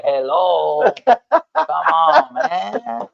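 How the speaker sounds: loud, high drawn-out complaint; mock exasperation. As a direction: call him out in playful disbelief. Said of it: "I'm like".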